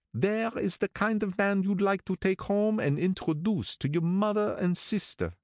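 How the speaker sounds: approving Wolfsheim voice, pitched high; admiring old gangster. Acted. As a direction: boast about him like a proud patron. Wolfsheim recalls meeting Gatsby.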